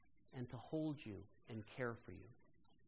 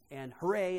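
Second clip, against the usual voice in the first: a lively, louder hooray in the telling; excited retold cheer; 4 semitones higher, 9 dB louder than usual. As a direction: relive the surprise with a bright cheer. Retelling the surprise party cheer.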